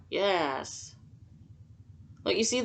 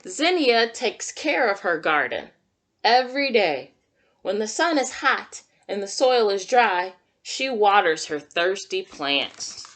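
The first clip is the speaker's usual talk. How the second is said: put-on reading to children; 3 dB louder than usual. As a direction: read it like storytime for little kids. Reads picture book to children.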